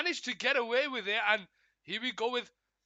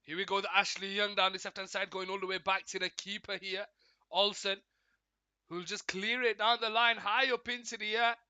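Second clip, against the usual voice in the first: running commentary, lifting as play advances; live play-by-play. Real, not acted. Streamer calling Villa's move toward Watkins, live play-by-play. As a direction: follow the ball upfield with rising energy.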